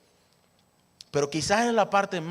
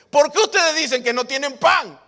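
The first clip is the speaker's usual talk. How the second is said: Jesus' exasperated question; 9 semitones higher, 7 dB louder than usual. Acted. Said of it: "Pero Jesús le dice".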